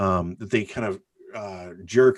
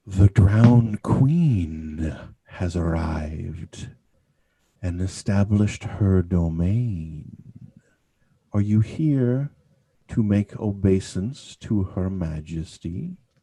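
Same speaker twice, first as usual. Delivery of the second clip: rumbling sea-like voice, "queen" drawn out; 2 semitones lower than usual. Narrator voicing a lady whose speech carries the rumble of the sea. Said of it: "you hear kind of the rumble of us of the sea in her speech".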